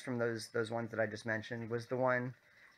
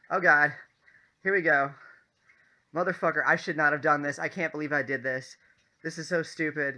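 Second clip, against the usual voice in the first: imitating roommate's panicked commentary; 3 semitones higher, 6 dB louder than usual. Imitating roommate on the ride up, mock panic. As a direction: gripe aloud like a scared rider. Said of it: "this is his commentary".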